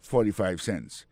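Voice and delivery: slow, even English numbers for learners; slow careful demo. Shown as a demonstration. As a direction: spell the price out slowly. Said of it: "Il gen a di".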